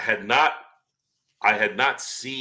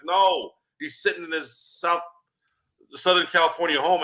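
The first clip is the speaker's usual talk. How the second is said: mock reporter; 7 semitones higher than usual. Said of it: "He's like".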